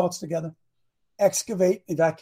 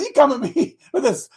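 higher, mock-taunting Goliath quote; retold jeer, pitched up; mocking giant; 5 semitones higher than usual. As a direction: imitate a giant making fun of a challenger. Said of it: "he was making fun of David".

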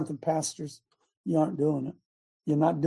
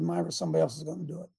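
mock announcement; 8 dB quieter, much faster than usual. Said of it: "she would probably get mad if I said".

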